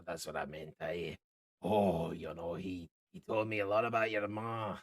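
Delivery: laughing through the words; a tipsy man chuckling at old memories; rambling with laughs. Acted. Drunk halfling rambles, laughing.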